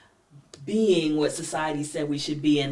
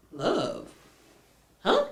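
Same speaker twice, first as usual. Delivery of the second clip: much higher, louder, laughing mock shout; grandmother voice; 7 dB louder than usual. Grandmother laughing off the bride's wish for love, loud high shout. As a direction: scoff at love, hollering and cackling. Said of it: "the grandmother was like".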